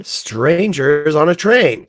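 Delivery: slow, loud title reveal; announcer reveal. Acted. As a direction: draw out the title grandly.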